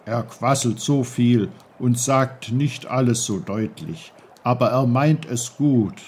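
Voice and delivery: lightly voiced patient old uncle; low, patient old uncle. Uncle about brook.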